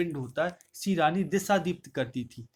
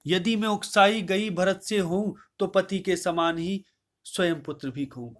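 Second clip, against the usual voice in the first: poem recitation; 3 semitones higher, 3 dB louder than usual. Acted. Recites verse.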